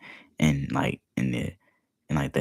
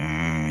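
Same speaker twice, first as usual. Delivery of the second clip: short buzzing "brrrr"; imitated aggressive vibration. Describing something heard while wading, imitated aggressive vibration. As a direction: imitate a violent buzz. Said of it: "aggressive vibration".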